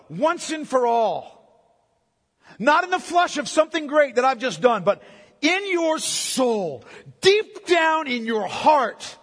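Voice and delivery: slow, swelling earnest plea; pleading Jesus. Acted. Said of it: "here's Jesus saying, in effect".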